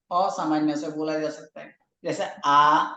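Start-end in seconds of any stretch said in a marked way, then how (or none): 2.0-2.9 आ said with a touch of stretch and weight. Shown as a demonstration. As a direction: give आ a little length. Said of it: "उसमें थोड़ा सा उसमें भार दिया जाता है". (आ, हल्का खींचकर)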